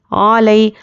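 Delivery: علی with the first vowel kept short; short ain. Shown as a demonstration. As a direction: move from ain straight into the glide in علی. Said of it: "عین کو جلدی پڑھنا ہے".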